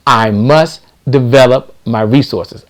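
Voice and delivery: slow, deliberate repeat; dictating an affirmation. Shown as a demonstration. Coach repeating the affirmation for viewers to write, slow dictation. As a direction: say it slowly so they can write it down. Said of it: "Let me say it again".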